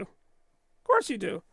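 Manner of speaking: slow, knowing sarcasm; slow sarcastic echo to the chat; drawn-out teasing. Acted. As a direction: stretch it out, mock-knowing. Repeated teasing reply.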